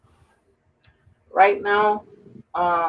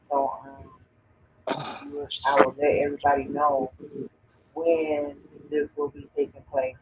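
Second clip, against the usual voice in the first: far from mic. Real, not acted. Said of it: "Your headphones still got you low".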